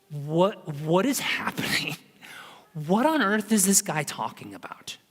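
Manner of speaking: whispered, confused aside between disciples; hushed whisper. Retold or imitated. Disciples whispering at the table, confused whisper. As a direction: hiss it under your breath, baffled.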